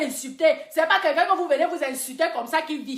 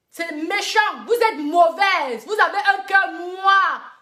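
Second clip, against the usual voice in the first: indignant scolding; 4 semitones higher, 4 dB louder, slower than usual. Real, not acted. Scolding bloggers as wicked.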